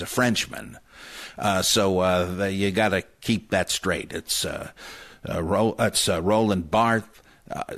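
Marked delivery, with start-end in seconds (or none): 6.2-7.1 "Barthes" ending in a light th; hint of an H. Shown as a demonstration. Separating two similar names, "Barthes" with a light th. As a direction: soften the end of "Barthes" toward th. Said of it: "sometimes there's a little hint of an H".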